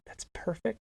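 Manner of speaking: hushed, rising, privately delighted; retold inner thought, very soft; secret realization.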